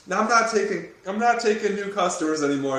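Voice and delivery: imitating Mark's gruff character. Host teases Mark by imitating his film character, loud and high. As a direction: ham up a stubborn old coach turning people away. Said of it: "You're just this".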